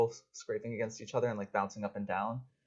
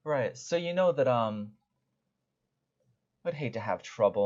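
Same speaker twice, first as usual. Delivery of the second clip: oily thug. Acted. GM voices thug making demands.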